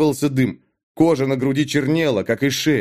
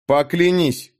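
insistent, higher-pitched demand; 5 semitones higher, slower than usual. A narrator's reading. Sorcerer demanding an oath from Dag, insistent. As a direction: press for an oath with weight. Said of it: "с нажимом повторил колдун".

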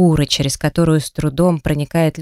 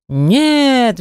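roar; 7 semitones higher than usual. A narrator's reading. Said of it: "взревел тролль".

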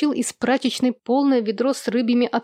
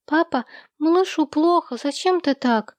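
put-on high little-girl voice; child pleading; 6 semitones higher than usual. A narrator's reading. Daughter asking papa about the sick boy, pleading. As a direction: plead with papa in a raised pitch. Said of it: "спросила Эви".

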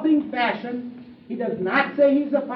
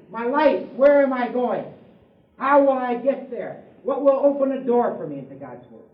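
normal talking voice

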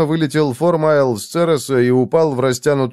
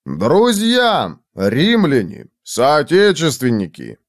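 heartfelt oratory; slower than usual. A narrator's reading. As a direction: appeal solemnly to the assembled crowd. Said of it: "проникновенно воззвал Формайл".

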